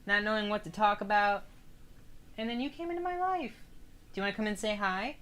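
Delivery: high, sing-song pet voice; cat talk. Real, not acted. Streamer greeting her cat in a high coo.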